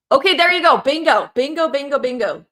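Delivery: high, loud burst of delight, easing off; excited exclamation. Real, not acted. Host to viewers who finally caught the answer, excited. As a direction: call out like a bingo winner.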